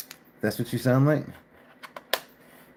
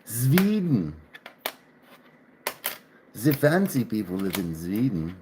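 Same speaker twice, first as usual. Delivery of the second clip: playful fake Swedish accent with buzzing consonants; mock Swedish accent. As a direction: put on a silly Swedish accent. Mock foreign accent, joking about Sweden.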